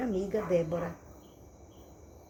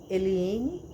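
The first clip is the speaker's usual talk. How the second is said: name called firmly, louder, rising at the end; stern fatherly authority; 4 dB louder than usual. Retold or imitated. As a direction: lightly imitate a father's authoritative call. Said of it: "falava comigo com essa mesma autoridade".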